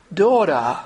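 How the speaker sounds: a hint of tender fatherly voice; gentle word. Shown as a demonstration. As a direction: say daughter lovingly. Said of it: "What a gentle word".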